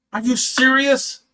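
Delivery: can't believe what he's hearing; incredulous. Real, not acted. Hearing friends report the rumour, a high slow stunned disbelief.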